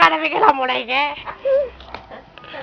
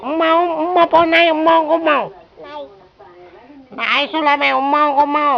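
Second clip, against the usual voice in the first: calling out mother; 3 semitones higher, 3 dB louder than usual. Pretend. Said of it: "அம்மான்னு சொல்லுங்க".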